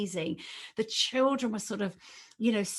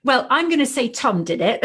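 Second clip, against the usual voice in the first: laughing modestly; 3 semitones higher, 8 dB louder than usual. Real, not acted. Laughs off the praise.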